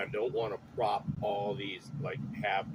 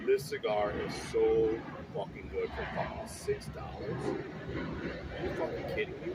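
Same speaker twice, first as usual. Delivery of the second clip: excited. Real, not acted. Raving about a cheap cigar.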